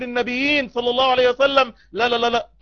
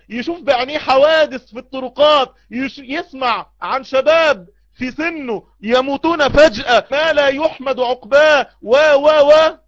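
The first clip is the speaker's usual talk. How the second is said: building louder to a shout; rising preaching; 3 semitones higher, 5 dB louder than usual. Acted. Preacher warning the heedless congregation, building to a shout. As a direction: push the warning up to a cry.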